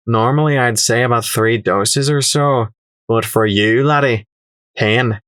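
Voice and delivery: put-on lightly accented, condescending trader; name the price like a sly dealer; haggling merchant.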